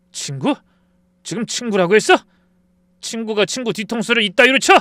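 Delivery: high, loud yelling accusation; shouting at the friend who stole his recipe; furious shout. Acted. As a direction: blast him with the betrayal.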